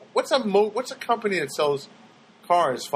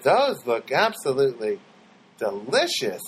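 weird stranger; 3 semitones lower, slower than usual. Retold or imitated. Strange man repeats himself.

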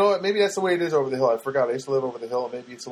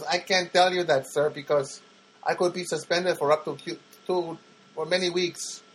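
imitated Filipino-accented agent, higher; 4 semitones higher than usual. Agent refusing the caller's question, Filipino accent. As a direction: mimic a Filipino call center worker's accent. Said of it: "I detect an accent".

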